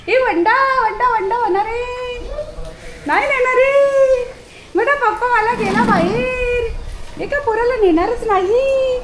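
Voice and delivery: high, slow singsong taunt; singsong teasing. Real, not acted. Woman taunting her dog he won't be taken out, high singsong.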